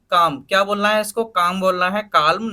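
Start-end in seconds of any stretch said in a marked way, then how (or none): 1.2-1.6 काम with a silent L; काम said plainly, L dropped; correct pronunciation. Shown as a demonstration. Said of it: "काल्म नहीं बोलना". 2.0-2.5 काल्म with an audible L; wrong pronunciation. Shown as a demonstration. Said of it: "काल्म नहीं बोलना".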